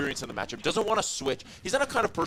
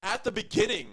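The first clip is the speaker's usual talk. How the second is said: high-pitched, hyped caster call; thrilled play-by-play; 8 semitones higher, slower than usual. Real, not acted. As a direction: call the replay still buzzing, pitched well up. Play-by-play right after the screams.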